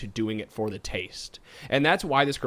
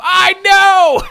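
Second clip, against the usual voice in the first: Fred-style yell; 15 dB louder than usual. Retold or imitated. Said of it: "It's like the old Fred stuff".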